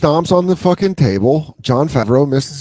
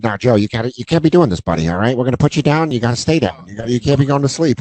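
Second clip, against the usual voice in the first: Vince Vaughn impression; 5 semitones lower, faster than usual. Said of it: "That was a good Vince Vaughn".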